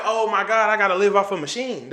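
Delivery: acting out panicked realization; retold panic.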